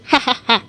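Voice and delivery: stiff, spoken-out "ha, ha, ha"; put-on belly laugh. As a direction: fake a laugh, beat by beat. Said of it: "grabs her belly and goes".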